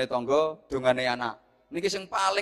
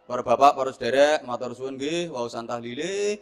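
modin's speech; 3 semitones lower than usual. Acted. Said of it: "bar tahlil modine sambutan".

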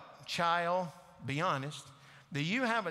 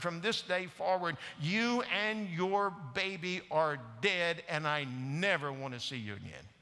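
firm, raised voice of a father casting her out; father disowning his daughter in anger; angry father; 2 semitones higher than usual. Retold or imitated. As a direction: lay down the law in anger. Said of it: "And then in his anger".

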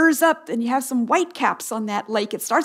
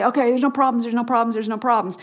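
mock denial; much faster than usual. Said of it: "stick your head in the sand and say".

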